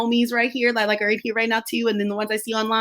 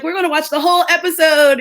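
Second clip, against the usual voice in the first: higher-pitched mock declaration; playful imitation, pitched up; imitated eager clients; 6 semitones higher, 4 dB louder than usual. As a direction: lightly mimic clients making a bold promise. Imitating clients' boast before sleep.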